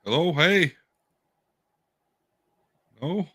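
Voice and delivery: glitchy robotic voice from a bad connection; choppy robot voice breaking up. Real, not acted. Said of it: "You sound like a robot?".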